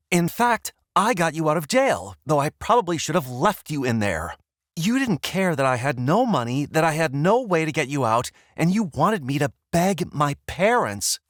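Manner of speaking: loud angry retort. Acted. Izzy arguing heatedly.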